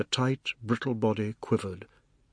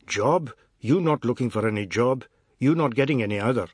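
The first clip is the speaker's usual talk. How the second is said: stern father; 5 dB louder than usual. Acted. Father dismissing the men.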